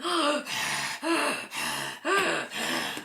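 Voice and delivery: breathy panting gasp; monster panting. A narrator's reading. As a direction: pant like a mouth breather.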